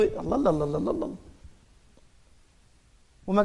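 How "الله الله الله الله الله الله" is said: mock audience praise. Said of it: "ويجيب لك مش عارف المعيقلي".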